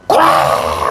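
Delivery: drawn-out, low rough roar of a yell; imitated yell. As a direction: imitate someone bellowing, without words. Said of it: "고래 고함 지르는 거야". (고함 흉내)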